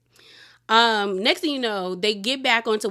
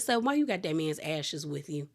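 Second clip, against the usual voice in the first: quoted question; 6 semitones lower, 7 dB quieter than usual. Retold or imitated. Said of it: "Okay, I said".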